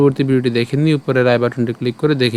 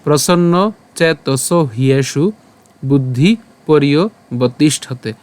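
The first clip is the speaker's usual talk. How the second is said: slow, measured chanting of the verse; slow Sanskrit shloka recitation; much slower than usual. Shown as a demonstration. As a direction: recite each word deliberately, slowly. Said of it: "আজকের শ্লোকটি হলো".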